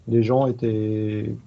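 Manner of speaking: normal talking voice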